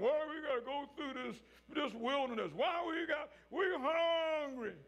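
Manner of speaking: voicing the grumbling Israelites, rising to a shout; whiny complaining. Preacher voicing Israel grumbling in the wilderness, mock complaint.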